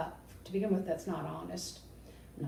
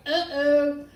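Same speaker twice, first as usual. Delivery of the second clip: uh-oh reaction; 6 semitones higher, 8 dB louder than usual. Retold or imitated. Reacting to a trash apology.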